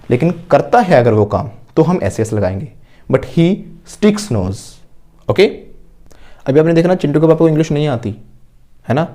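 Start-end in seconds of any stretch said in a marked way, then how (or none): 3.1-4.6 very slow, word by word, for students to repeat; slow model sentence. Shown as a demonstration. Teacher modelling an answer for the class, very slowly. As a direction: spell each word out slowly like a dictation. Teacher shows verb form.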